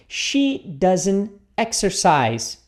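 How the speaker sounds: She doesn't exercise, drawn out word by word; very slow model. Shown as a demonstration. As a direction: stretch it out for the learner. (bem devagar, palavra por palavra)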